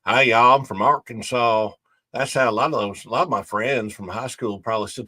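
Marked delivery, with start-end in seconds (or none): 0.0-1.7 put-on Arkansas accent. Joking about an accent he lacks, mock Arkansas accent. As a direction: play a mock Arkansas hick greeting. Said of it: "talk like this".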